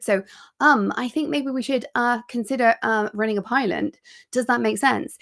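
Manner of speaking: hesitant, halting delivery full of ums and uhs; nervous version. Shown as a demonstration. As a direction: sound unsure, stumbling over fillers. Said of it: "It's very nervous".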